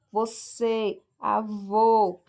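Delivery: "Você, avô" with closed final ê and ô; vogal fechada. Shown as a demonstration. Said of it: "aquele som ali é mais fechado". ("Você, avô" com ê e ô finais fechados)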